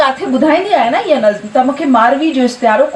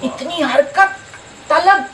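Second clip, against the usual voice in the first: slow, stretched verse endings; poetry recitation; slower than usual. Acted. Poet reciting verses on time to a gathering, drawn-out declamation. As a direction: declaim each couplet, then repeat it with more lift.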